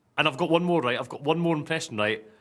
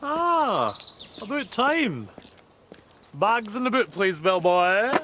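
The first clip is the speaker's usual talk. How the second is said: much higher, slowed, hammed-up Jaws voice; Jaws impression; 7 semitones higher, much slower than usual. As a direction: ham up a Bond villain ordering the bellboy. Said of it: "for the Bond films, this is the impression".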